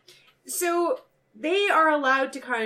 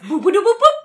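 robot noise; 10 semitones higher, 12 dB louder than usual. Retold or imitated.

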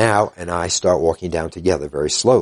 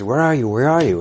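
raised, higher voice, searching for them; calling out; 7 semitones higher than usual. Retold or imitated. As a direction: call out to find lost hikers. Rescuer calling out by phone.

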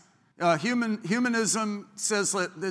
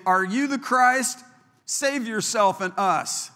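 mocking taunt; 6 semitones higher, 5 dB louder than usual. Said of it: "And so it's mocking".

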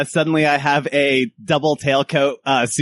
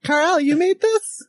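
high, rising, impressed question; high-voiced guest character; 11 semitones higher than usual. Guest asks Carl about the meal, high impressed character voice. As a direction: pitch it up in character, marvelling.

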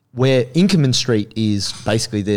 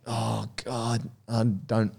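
much softer, fed-up under the breath; weary mutter; 11 dB quieter, much slower than usual. Retold or imitated. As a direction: sigh it away, not wanting trouble. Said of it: "I was like".

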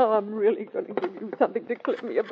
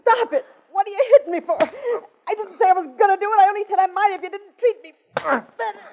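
frightened protest; 9 semitones higher than usual. Acted. Woman being hit, protesting.

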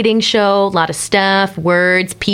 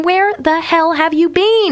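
mock scolding; 7 semitones higher than usual. Mock scolding of new listeners.

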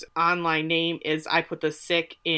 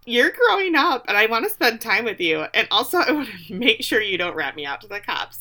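raised pitch, pleading; high pleading voice; 3 semitones higher than usual. Retold or imitated. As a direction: ask sweetly in a higher voice. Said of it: "Shauna says".

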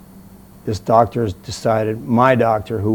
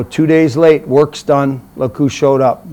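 louder, raised-pitch annoyed jab; pissed-off retort; 3 semitones higher, 7 dB louder, slower than usual. Retold or imitated. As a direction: retell a peeved telling-off. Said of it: "you were seriously pissed off".

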